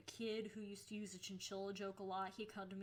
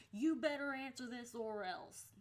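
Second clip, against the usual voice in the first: louder, pointed warning; bitchy threat; 3 semitones higher, 5 dB louder than usual. Retold or imitated. Girl texting a friend who ignores her, bitchy warning. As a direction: lay down a bossy ultimatum. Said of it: "There's my bitchiness coming in".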